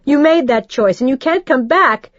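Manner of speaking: rising into a high, loud tearful rant; distraught mother berating the ex; tearful rage. Acted. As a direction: build from fast anger to breaking. Mother raging continues.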